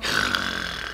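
long breathy sigh; sleepy sigh. A narrator's reading. Bird settles for its nap, sleepy sigh. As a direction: let out a sigh as if dozing.

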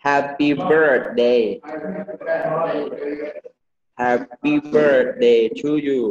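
"happy birthday" slow, each beat separated; slow HAP-py BIRRTH-day; correct happy birthday. Shown as a demonstration. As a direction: model "happy birthday to you" slowly for repeating. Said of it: "พูดได้ไหม".

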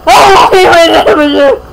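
calling out. Real, not acted. Suddenly calling out to stop.

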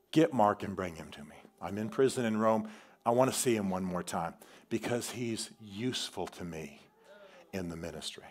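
a dying man's quiet last request; dying apostle's last words. Retold or imitated. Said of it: "in the words".

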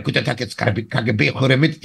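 mock Russian accent, heavy. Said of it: "Mit russischem Akzent".

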